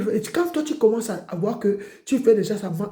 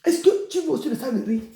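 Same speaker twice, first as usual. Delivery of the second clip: high, loud questions through laughter; laughing mock questions; 8 semitones higher, 4 dB louder than usual. Preacher teasing the congregation, laughing high and loud. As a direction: tease them, laughing, pitched up.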